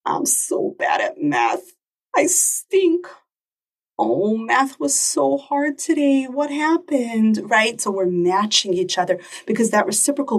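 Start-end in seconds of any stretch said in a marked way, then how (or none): 0.0-3.1 put-on sad child. Child voiced, upset about math. 4.0-7.5 sympathetic mom. Retold or imitated. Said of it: "I'm matching your emotional state".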